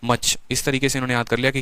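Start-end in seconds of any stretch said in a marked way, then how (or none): 0.0-0.4 slow mnemonic. Shown as a demonstration. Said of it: "इन्होंने नीचे से याद किया है".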